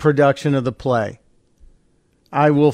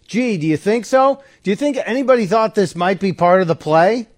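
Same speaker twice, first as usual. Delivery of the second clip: higher, mock-incredulous sarcasm; sarcastic disbelief; 5 semitones higher than usual. Real, not acted. Host mocking the audience, sarcastic. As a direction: scoff at the idea the crowd was fooled.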